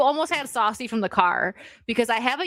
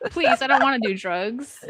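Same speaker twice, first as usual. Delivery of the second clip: mock pleading; 4 semitones higher than usual. Joking plea over misheard "crack.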